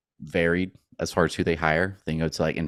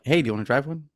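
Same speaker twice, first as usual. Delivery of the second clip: pitched-up friendly offer; chirpy sales pitch, higher; cheery salesperson voice; 9 semitones higher, faster than usual. Retold or imitated. Salesperson offering test drive.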